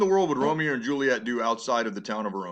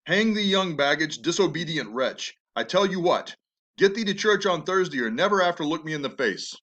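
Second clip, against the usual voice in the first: hateful father; 3 semitones higher than usual. Acted. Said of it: "his most hateful language yet".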